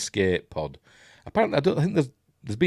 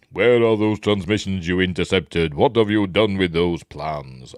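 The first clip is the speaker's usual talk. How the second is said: Darth Vader; 4 dB louder than usual. Acted. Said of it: "that's where he asks".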